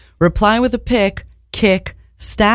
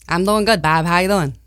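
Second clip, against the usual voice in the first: put-on Boston accent. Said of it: "Boston accent".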